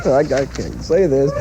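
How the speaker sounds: anchor stifling giggles. Real, not acted. Anchor breaking up.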